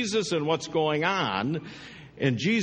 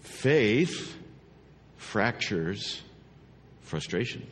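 word by word; 5 semitones lower, much slower than usual. Shown as a demonstration. Preacher delivers the key phrase, word by word.

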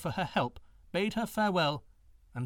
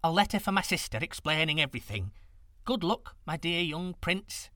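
put-on old woman voice; 4 semitones higher than usual. Old woman bids farewell.

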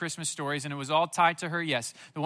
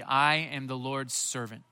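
slow and simple; 4 semitones lower than usual. Shown as a demonstration. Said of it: "when she says simply".

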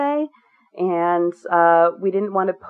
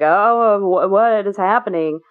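alarmed confusion; 4 semitones higher, slower than usual. Retold or imitated. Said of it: "he'd kind of be like".

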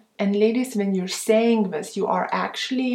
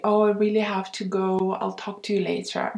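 gentle, quick goodbye; much faster than usual. Shown as a demonstration. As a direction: brush him off kindly and quickly. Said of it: "Then just gently say".

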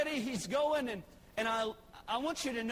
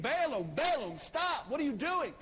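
raised, calling angel voice; 3 semitones higher, 4 dB louder than usual. Retold or imitated. Angel stops Balaam on the road, raised call. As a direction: call Balaam's name to halt him. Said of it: "an angel stands right in the middle saying".

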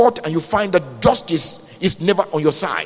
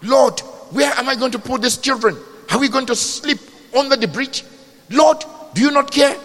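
raised, anguished appeal to God; desperate plea; 4 semitones higher than usual. Acted. Evicted parent asking the Lord for help, desperate plea. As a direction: plead as if out of options. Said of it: "And you're saying".

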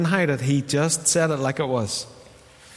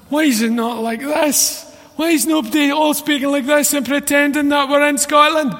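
mock whiny complaint; 12 semitones higher, 5 dB louder than usual. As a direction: whine it like a let-down child.

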